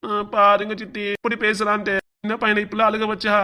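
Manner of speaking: whiny tearful tattle; mildly hammed-up crybaby whine; mock crying. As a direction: complain to auntie through put-on tears. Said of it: "அவன் சின்ன பையன் அழுகுறான்".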